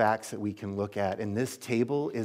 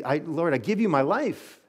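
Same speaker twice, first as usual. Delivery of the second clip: pitched higher, earnest surrender of a whole life; sincere surrender; 6 semitones higher than usual. Shown as a demonstration. Pastor showing how to pray it aloud, earnest raised surrender. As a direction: offer it up with feeling. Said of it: "You just say".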